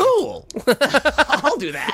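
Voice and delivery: sarcastic high cool. Acted. Mock sarcastic reply, very high.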